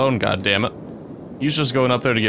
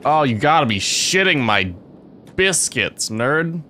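exasperated outburst; 4 semitones higher than usual. Real, not acted. Panicking at game disaster.

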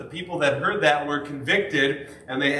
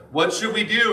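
higher, urgent question; earnest question; 7 semitones higher, 3 dB louder than usual. Acted. Crowd asking Peter, higher and urgent. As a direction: ask like the crowd desperate for answers.

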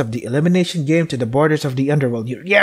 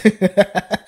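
imitated creepy laugh; 5 semitones higher than usual. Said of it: "That's how you laugh, right?".

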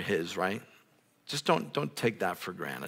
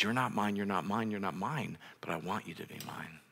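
fading tender voice of God; 8 dB quieter than usual. Acted. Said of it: "the gospel is".

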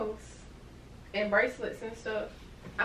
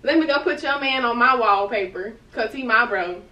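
heated retort; 7 dB louder than usual. Real, not acted. Turns friend's excuse against her.

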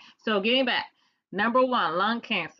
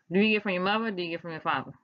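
DC twang; much faster than usual. Shown as a demonstration. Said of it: "That's my little D C twang".

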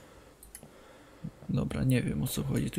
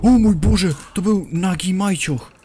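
loud high shocked cry; startled shout; 6 semitones higher, 7 dB louder than usual. Real, not acted. To viewers at the naked figure, loud high shock. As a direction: blurt it out in shock.

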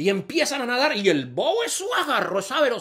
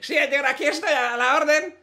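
dim-witted character voice; 10 semitones higher than usual. Acted. Bobo answering interviewer.

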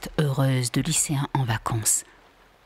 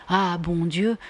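« Ah, bon Dieu » singé avec ironie, montée sur Dieu; imitant le juron; 2 semitones higher, slower than usual. Retold or imitated. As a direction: moquerie légère du juron de Phil. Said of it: "de tendre les deux bras et de jurer". (Vinka singe le juron de Phil, moqueuse)

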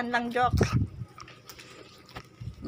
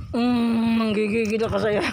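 playful gushing; 3 semitones lower than usual. Real, not acted. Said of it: "Ganyan ako kay Jack maglaro".

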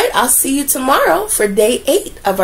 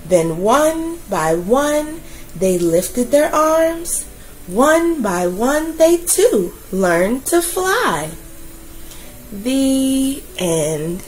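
put-on gentle storytelling voice for children; story narration. A narrator's reading. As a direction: read it like a bedtime picture book. Reads a picture book aloud.

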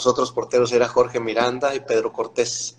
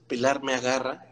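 normal talking voice

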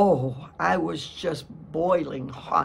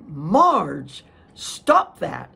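sharp command; 7 dB louder, much slower than usual. Retold or imitated. Husband scolds her mid-fight.

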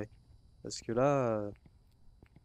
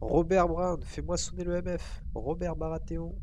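raised, higher calling voice; commanding call; 6 semitones higher, 5 dB louder than usual. Pretend. Player orders the ghost to ring the detector, calling out. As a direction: summon the ghost loudly by name.

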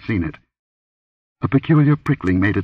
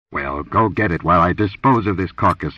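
commanding. Acted. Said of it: "he commanded".

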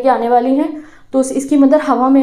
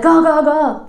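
lightly imitated seagull cry, a bit higher; gull call; 4 semitones higher, much slower than usual. Young seagull calls to mother for food, light mock squawk. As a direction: mimic a hungry chick calling its mother. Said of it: "अपनी mother को आवाज़ लगाता है".

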